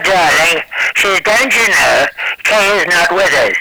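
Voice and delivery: a hint of a posh English lady; English accent. Guest imitates the English housekeeper in a light English accent. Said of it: "she talks like this".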